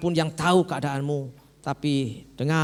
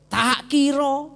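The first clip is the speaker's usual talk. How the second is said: high, loud indignant voice; angry Naaman; 10 semitones higher, 4 dB louder, much slower than usual. Acted. Proud general fuming at being snubbed. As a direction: huff like an offended general.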